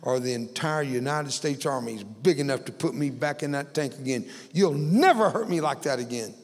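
mild retold rage, rising at the end; patient defying the medic, in a mild rage. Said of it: "in a rage".

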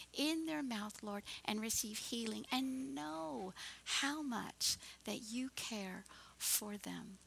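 earnest, gently flowing prayer voice; heartfelt prayer. Real, not acted. Pastor closing in prayer for every person here, prayerful. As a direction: pray over the listeners, drawing out the last phrases.

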